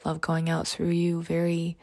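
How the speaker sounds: slow, soft meditation voice; guided meditation. Acted. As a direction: guide them into calm, often whispering. Leads a meditation.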